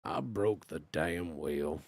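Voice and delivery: deep slow cowboy line. Acted. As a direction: growl it low like an old cowboy. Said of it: "turn into a cowboy".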